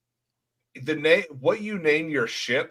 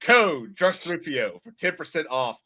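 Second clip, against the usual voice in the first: hammy pirate ad, bursts louder; pirate ad read; 3 dB louder than usual. Pretend. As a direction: bark the ad like a pirate captain.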